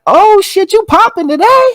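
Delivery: hyped compliment. Retold or imitated. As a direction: gush over a friend who looks good. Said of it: "I'm like".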